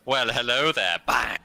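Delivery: playful greeting with a loud bang; lightly voiced skeleton. Skeleton greeting a new player, playfully menacing. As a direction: greet them, then pounce loudly. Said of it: "what I'd do if I was a skeleton".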